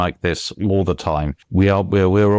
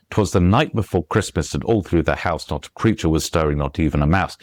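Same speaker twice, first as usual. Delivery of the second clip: sped-up beat; 4 semitones lower than usual. Shown as a demonstration. Author shows how verse keeps rhythm, sped up. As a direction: race the light syllables to keep the beat. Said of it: "It's all speeds up".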